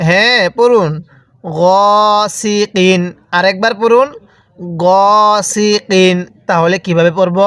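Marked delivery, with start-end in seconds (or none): 1.4-3.0 long held "গ", then "সি, কিন"; drawn-out vowel. Shown as a demonstration. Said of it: "এরকমভাবে শিখব". 4.8-6.2 long held "গ", then "সি, কিন"; drawn-out vowel. Shown as a demonstration. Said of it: "এরকমভাবে শিখব".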